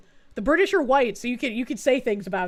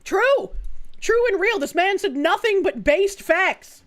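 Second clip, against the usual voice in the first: mock hype agreement; 5 semitones higher than usual. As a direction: shout agreement like a fanboy. Streamer hyping the clip's claims.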